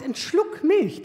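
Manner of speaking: very slow, drawn-out mock innocence; son's innocent ask. Mother mimics son's innocent request for a sip of milk, slow. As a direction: stretch it out like a sweet-talking teen. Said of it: "der sagt".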